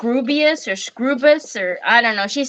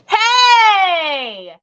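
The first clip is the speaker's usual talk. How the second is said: shout; 7 semitones higher, 3 dB louder than usual. Real, not acted. Child grabs paper.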